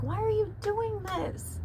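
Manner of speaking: high, slow despairing plea; pleading. Retold or imitated. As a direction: beg her, close to tears. Pleading with her dying dog.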